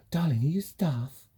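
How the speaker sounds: lightly voiced sweet woman, slow; a hint of a patronising stranger; woman asking sweetly. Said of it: "this woman said".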